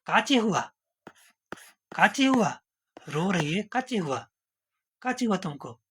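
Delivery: mother-in-law asking. Acted. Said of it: "तो पूछा गया".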